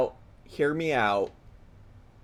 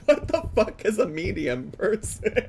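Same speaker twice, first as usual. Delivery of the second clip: laughing disbelief; 4 semitones higher than usual. Real, not acted. Laughing at clip's odd phrase.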